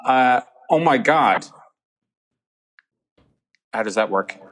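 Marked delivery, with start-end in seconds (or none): 0.7-1.5 attempted American accent; tentative imitation of an American accent. Shown as a demonstration. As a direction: have a go at sounding American. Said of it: "can you do an, uh, American accent?".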